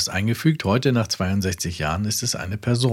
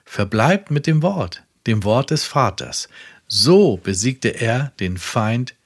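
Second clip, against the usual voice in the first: preaching. Acted. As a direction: proclaim it to the whole world from the pulpit. Reads Branham sermon quote. (eindringlich predigend)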